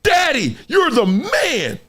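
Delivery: put-on slow, awed kid's voice; lightly voiced admiring son. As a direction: son in awe of his dad.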